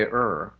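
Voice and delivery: lip-rounded American er. Shown as a demonstration. Linguist explaining American speech, American R on er. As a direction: round the lips on er. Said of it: "Americans, when they say".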